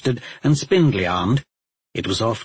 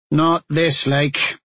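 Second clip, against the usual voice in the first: somber; 4 semitones higher, slower than usual. Acted. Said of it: "more reverential and somber tone".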